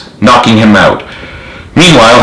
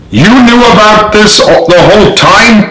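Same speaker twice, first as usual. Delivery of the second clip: much higher, outraged yell; 11 semitones higher than usual. A narrator's reading. Sergeant yelling at the general, much higher and outraged. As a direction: yell the betrayal at him. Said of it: "Parker yelled".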